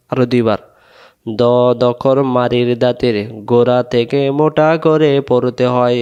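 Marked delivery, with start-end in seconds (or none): 1.4-6.0 recitation drill. Shown as a demonstration. Rule repeated as a drill.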